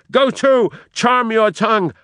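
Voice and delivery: high, loud menacing cry; Iago crying out. Acted. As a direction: snap it out to silence her. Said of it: "cries out".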